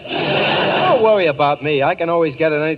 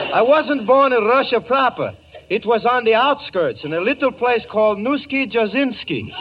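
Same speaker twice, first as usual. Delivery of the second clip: a half-hearted mock Russian accent, pitched higher; 4 semitones higher than usual. Manager fakes being Russian for the headmistress, in a half-hearted mock Russian accent. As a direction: fake a Russian emigre, badly. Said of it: "why don't you speak with more of an accent".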